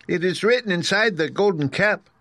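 very high squeaky mouse queen; squeaky little voice. A narrator's reading. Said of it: "in her squeaky little voice".

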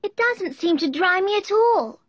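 put-on high-pitched mournful girl; gently glum, high Alice voice; melancholy. A narrator's reading. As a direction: complain sadly in a high child's voice. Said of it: "said Alice in a melancholy tone".

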